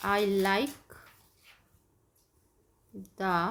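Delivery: slow word-by-word dictation, long gaps. Shown as a demonstration. Teacher dictating to kids, slow and spaced. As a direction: spell out the answer slowly for the class. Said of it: "आप इसका answer लिख सकते हैं".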